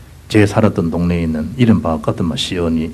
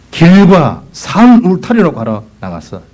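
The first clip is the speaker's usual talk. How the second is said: slow, higher commanding voice; master's command; 8 semitones higher, 5 dB louder, slower than usual. Acted. Master sending his servant to the roads, slow command. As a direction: order it like the master of the feast.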